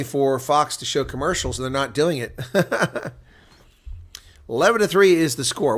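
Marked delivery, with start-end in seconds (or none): 2.4-3.1 short real laugh, pitched up; brief higher-pitched laugh; amused chuckle. Real, not acted. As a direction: chuckle at your own remark. Amused by lack of commercials.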